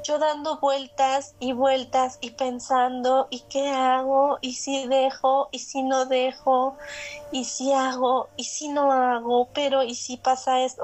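slow, looping sing-through of worries; tortured rumination. Retold or imitated. Woman retelling her sleepless night, mildly tortured rumination. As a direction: draw out each anxious question, evenly. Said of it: "Con estos pensamientos torturantes".

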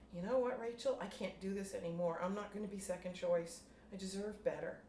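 telling Rachel off at last; lightly acted anger; firm confrontation.

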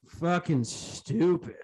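gasp, then push out slow, breathless words; out of breath. Real, not acted. Podcaster runs out of air ranting about sensitivity, out of breath. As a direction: trail into a winded, drawn-out finish. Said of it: "I ran out of breath".

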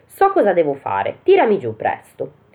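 a hint of a plucky little boy; Pollicino's voice. Pollicino ribatte, voce acuta. (vocina di Pollicino, più acuta)

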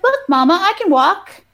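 put-on high, proud little-kid voice; little girl. Little girl showing mama she walks, high child voice. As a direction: pipe up as an excited small child. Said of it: "gets her little body out".

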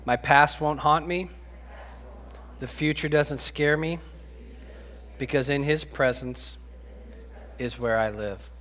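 call-and-response declaration. Real, not acted. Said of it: "And repeat after me".

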